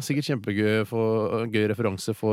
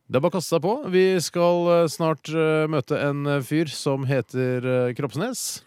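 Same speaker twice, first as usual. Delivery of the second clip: raised presenter voice, settling down; higher, projected segment intro; radio host announcing; 5 semitones higher, 4 dB louder, slower than usual. Acted. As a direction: introduce the coming guest on air.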